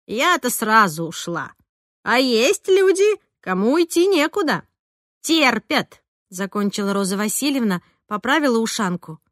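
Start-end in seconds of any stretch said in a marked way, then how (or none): 0.1-6.0 drawn out, rising high and loud; indignant older-woman character. Acted. Roza complains about those with nowhere to go, indignant and drawn out. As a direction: complain in a slow, climbing voice. Voices Roza Vasilyevna in story.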